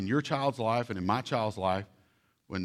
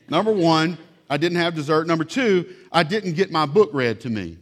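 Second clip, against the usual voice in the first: put-on loud, raised child's complaint; hammed-up pouting kid; voicing an upset child; 4 semitones higher, 7 dB louder than usual. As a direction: read it like the kid wrote it. Reads child's journal aloud.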